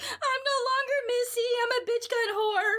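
high laughing cry, half joking; laugh-cry it out, mock despair; laughing through tears. Telling her best friend about the bad first day, laughing high through tears. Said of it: "I'm like".

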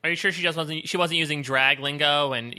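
ordinary delivery

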